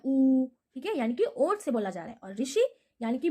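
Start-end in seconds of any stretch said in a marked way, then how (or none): 0.0-0.5 ऊ said with rounded lips. Shown as a demonstration. Teacher showing students that ऊ is made at the lips. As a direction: push ऊ out through round lips. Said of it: "ओंठ है वो गोल हो जा रहा है".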